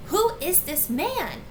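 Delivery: loud, high, outraged shriek of a question; screaming. A narrator's reading. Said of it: "screaming at the top of her lungs".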